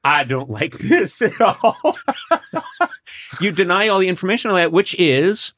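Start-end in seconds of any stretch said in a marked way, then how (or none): 0.0-2.0 mock indignant. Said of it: "you say".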